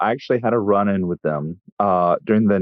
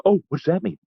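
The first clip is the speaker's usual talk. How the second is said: higher, fake-puzzled put-on voice; mocking Nazi streamer; 9 semitones higher, much faster than usual. Streamer pretending not to understand, higher mocking voice. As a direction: play dumb in his sneering tone. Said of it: "I'm not even doing an impression".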